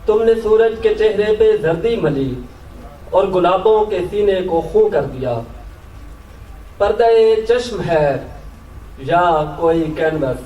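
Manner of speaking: measured Urdu nazm recital, pauses between phrases; poetry recitation. Acted. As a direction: lift each opening, let the line fall away. Recites own poem to audience.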